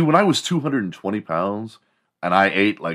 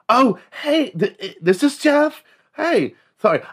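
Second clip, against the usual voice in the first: very high, loud camp phone greeting; hammed-up, flustered high-pitched cover-up; flamboyant gay man; 4 dB louder than usual. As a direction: snap hurriedly into a high fake camp voice. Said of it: "forgets he's gay".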